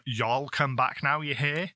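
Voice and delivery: southern customer farewell. Retold or imitated. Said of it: "was to say to them".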